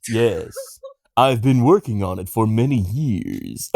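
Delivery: lightly put-on Japanese accent; measured reply in a faked Japanese accent; mock Japanese accent. Accepting praise for the voice, mock Japanese accent. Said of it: "really good, uh, Japanese voice there".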